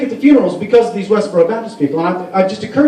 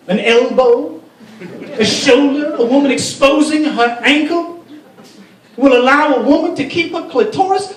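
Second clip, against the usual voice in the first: indignant politician in a hammed-up Arabic accent; speechify in a put-on Arabic accent; mock Arabic accent; 4 semitones higher than usual. Lawmaker debating women's modesty, mock Arabic accent. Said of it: "That's my Arabic accent".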